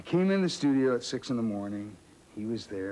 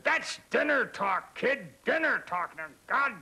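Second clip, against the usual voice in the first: gruff director; 13 semitones higher than usual. Retold or imitated. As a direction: mimic a bossy old director shutting the kid down. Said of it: "he said".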